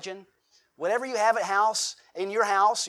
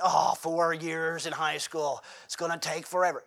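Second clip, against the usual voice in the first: put-on teen dreading school. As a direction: stretch it out like four years is endless.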